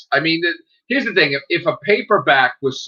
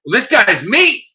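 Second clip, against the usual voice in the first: retold reveal; 8 semitones higher, 4 dB louder than usual. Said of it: "I'm like".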